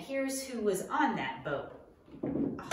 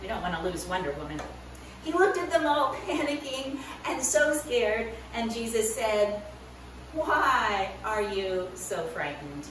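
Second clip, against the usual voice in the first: put-on lively storytelling to kids; animated children's Bible story voice; story narration for children.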